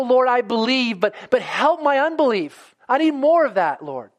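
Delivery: a believer begging God for help, pleading and rising; earnest pleading prayer. Retold or imitated. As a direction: plead with the Lord, rising as you go. Preacher voicing an earnest prayer.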